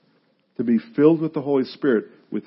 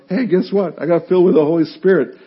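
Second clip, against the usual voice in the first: higher, quick, eager news; excited announcement; 5 semitones higher, 4 dB louder than usual. Retold or imitated. Preacher retelling phone call to sister, excited announcement. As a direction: share big news in a rush.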